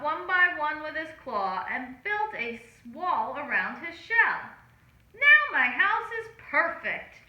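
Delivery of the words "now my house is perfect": a bright cheer, higher and louder. A narrator's reading. Hermit Crab cheering over his finished house, higher and louder. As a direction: cheer that the house is finally done. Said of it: "cheered Hermit Crab".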